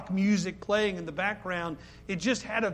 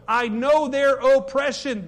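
slow, louder solemn proclamation; voice of God; 5 semitones higher, 7 dB louder, slower than usual. Acted. Preacher voicing God to congregation, slow solemn proclamation.

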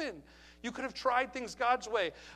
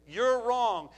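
louder, a hammed-up accusing jab; loud mock accusation; 7 dB louder than usual. Mocking what critics call you.

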